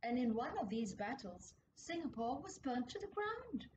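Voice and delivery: put-on lively storybook reading for kids; gentle, animated storyteller voice; story narration. A narrator's reading. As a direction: tell it like a picture book read aloud. Reads history story to children.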